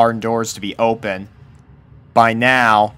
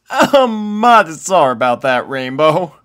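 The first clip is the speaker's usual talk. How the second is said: sheepish apology; 6 semitones higher, 5 dB louder than usual. A narrator's reading. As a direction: apologise with a guilty chuckle. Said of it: "Applejack chuckled sheepishly".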